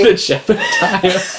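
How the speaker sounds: slow, laughing mock name. Real, not acted. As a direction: savor the silly name, laughing.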